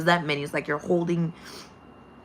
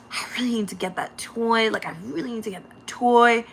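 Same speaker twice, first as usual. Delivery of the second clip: craving; 3 semitones higher than usual. Retold or imitated. Voicing craving for the toy.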